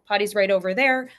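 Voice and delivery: casual, unbothered parent voice; lightly casual, easygoing parent; breezy nonchalance. Shown as a demonstration. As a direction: act like it's no big deal. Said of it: "act like".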